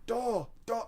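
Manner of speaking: high, soft imitation of a Chinese accent; imitated Chinese accent. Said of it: "I'm doing the accent".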